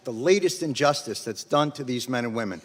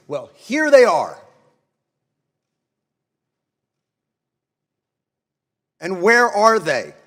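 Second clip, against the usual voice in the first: angry rebuke; 2 semitones higher, 5 dB louder than usual. Real, not acted. To the absent congressmen, a loud angry rebuke. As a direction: call them out with indignation.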